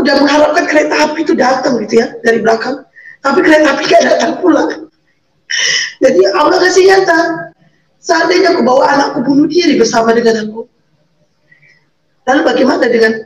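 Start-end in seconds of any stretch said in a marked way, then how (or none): 6.0-7.2 real choked-up sob; crying. Real, not acted. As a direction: voice cracking with emotion. Emotional turning point of story.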